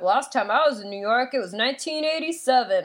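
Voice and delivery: lightly put-on Southern accent. Bus passenger talking a kid's ear off, light mock Southern accent. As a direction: imitate a talkative man with a hint of Southern. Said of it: "like, a Southern accent".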